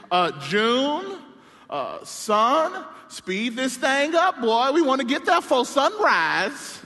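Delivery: put-on slow, drawn-out old man telling the boy to speed up; lightly voiced granddad, unhurried command; granddaddy urging. Preacher voicing granddaddy to grandson, slow and commanding. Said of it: "and he says".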